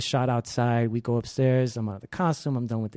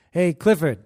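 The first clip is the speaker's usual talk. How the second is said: higher, raised hail; calling out; 5 semitones higher, 4 dB louder than usual. Retold or imitated. Security guard hailing the worker, calling out. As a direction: imitate a guard calling across a lobby.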